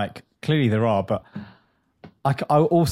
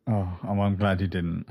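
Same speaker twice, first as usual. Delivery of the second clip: whisper; 4 semitones lower, 4 dB quieter than usual. Real, not acted. Whispers back in kind.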